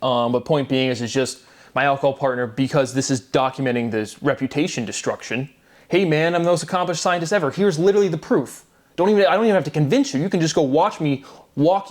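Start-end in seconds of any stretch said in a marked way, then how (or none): 5.9-11.9 higher, fast, pushing plea; pleading to be believed, speeding up; exasperated pleading. Retold or imitated. Speaking for himself to his partner, a higher, faster, exasperated plea.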